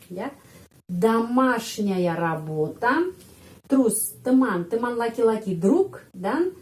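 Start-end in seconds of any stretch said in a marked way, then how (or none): 0.9-3.0 домашняя работа repeated slowly with rising end; teacher repeat. Shown as a demonstration. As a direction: say it again for learners to copy.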